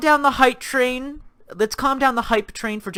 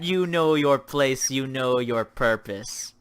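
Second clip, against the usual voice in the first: mock condescension; 8 semitones lower, 5 dB quieter, slower than usual. Mock lording over chat.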